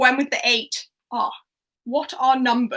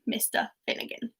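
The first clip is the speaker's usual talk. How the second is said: ordinary talk, nothing marked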